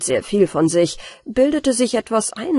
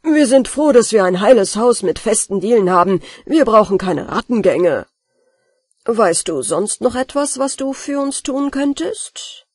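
stern master; 2 semitones higher, 4 dB louder than usual. Acted. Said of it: "rief der Hausherr".

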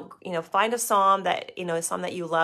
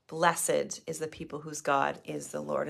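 softer repeat of "Blessed is the people whose God is the Lord"; quiet reflective repeat; 4 semitones lower, 5 dB quieter than usual. Shown as a demonstration. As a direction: say it again softly to yourself.

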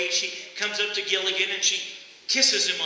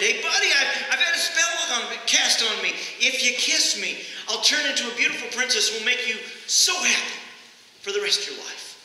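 fed-up frog repeating its offer with a push; exasperated frog; 4 semitones higher than usual. Retold or imitated. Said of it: "and exasperated the frog".

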